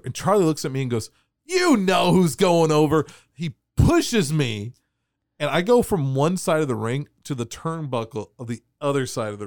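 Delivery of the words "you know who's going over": louder, slower smug reply; smug tough. Retold or imitated. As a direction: let him know you're in charge. Charlie's retold reply.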